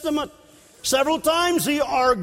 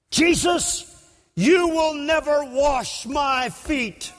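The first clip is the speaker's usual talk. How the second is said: higher, slow, stubborn refusal; Peter refusing; 3 semitones higher, slower than usual. Acted. Peter stubbornly refuses to let Jesus wash his feet, high and slow. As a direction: draw out a proud refusal.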